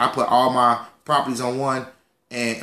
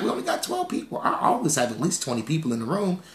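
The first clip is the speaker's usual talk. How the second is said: mock sulky aside; 6 dB quieter than usual. Real, not acted. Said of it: "I'm not sure what's going on tonight".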